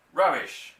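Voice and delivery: a sharp loud shout of protest; yelled. A narrator's reading. Mister Hazel rejecting the father's claim, shouting. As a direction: bark it out, offended. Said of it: "yelled Mister Hazel".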